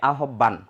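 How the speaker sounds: "আহ্বান" said a-hob-ban with a doubled b; spelling pronunciation. Shown as a demonstration. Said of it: "বানান অনুযায়ী উচ্চারণ করি".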